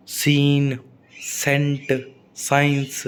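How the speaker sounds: "सीन, सेंट, साइंस" starting on a plain S, no C sound; silent C. Shown as a demonstration. Teacher showing S before C, "सीन, सेंट, साइंस" with silent C. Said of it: "सी को बोलना नहीं है".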